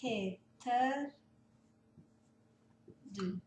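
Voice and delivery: "vad" "heter" "du" said word by word, with long gaps between them; slow broken-up demo. Shown as a demonstration. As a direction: split the question into separate, slow words. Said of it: "O, vad heter du?".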